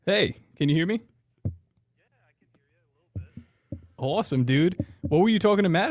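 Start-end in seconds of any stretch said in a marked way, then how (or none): 1.4-3.8 tinny voice through a phone; phone speaker. Real, not acted. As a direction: heard over speakerphone. Caller heard through phone.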